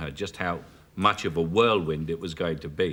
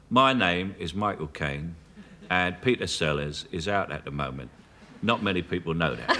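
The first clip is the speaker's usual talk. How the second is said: a hint of Sellers doing Caine; Sellers as Michael Caine; 3 semitones lower than usual. A touch of Sellers mimicking Caine on his answering machine. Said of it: "I can do his impression of me".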